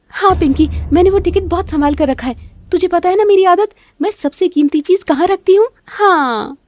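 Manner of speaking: high, loud showing-off on the phone; loud bragging phone talk. Acted. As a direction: boast so she overhears. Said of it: "जोर-जोर से बात कर रही है". (ऊँची आवाज़ में दिखावटी फ़ोन बातचीत)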